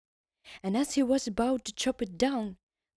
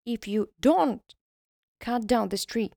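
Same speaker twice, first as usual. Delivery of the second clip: sly tiny elf making a deal; bargaining elf; 2 semitones higher, 6 dB louder than usual. Acted.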